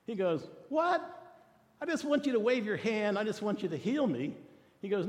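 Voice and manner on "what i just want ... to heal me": angry Naaman. Retold or imitated. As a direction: huff like an offended general. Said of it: "Naaman got angry".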